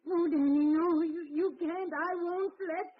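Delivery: mother holding back her son, high and frantic; frantic pleading. Acted. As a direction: beg him not to go. Mother stopping son leaving.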